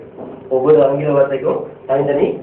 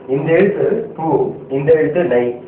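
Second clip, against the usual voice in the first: slow sounding out; slower than usual. Shown as a demonstration. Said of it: "எப்படி?".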